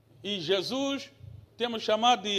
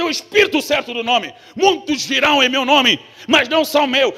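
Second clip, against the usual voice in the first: loud, driving sermon delivery, building to a peak; fiery preaching; 6 semitones higher, 11 dB louder than usual. Acted. Preacher rousing the congregation, loud and fiery.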